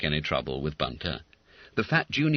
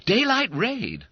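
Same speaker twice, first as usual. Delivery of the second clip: slow joking drawl; 4 dB louder, slower than usual. A narrator's reading. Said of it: "answered Bob".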